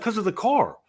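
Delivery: imitating the guy. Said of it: "He's like".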